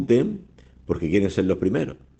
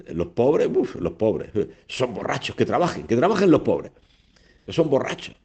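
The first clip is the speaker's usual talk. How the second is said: mock scornful rich man; 3 semitones higher than usual. Voicing the selfish rich man.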